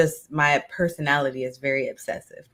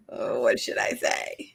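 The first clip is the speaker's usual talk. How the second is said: whispered inner panic; hushed, nervous self-talk; anxious whisper; 5 dB quieter than usual. Retold or imitated. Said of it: "the pause is like".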